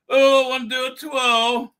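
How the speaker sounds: light, loud mock gush; mocking Captain Twirl. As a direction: parody his giddy twirl line. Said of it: "Captain Twirl".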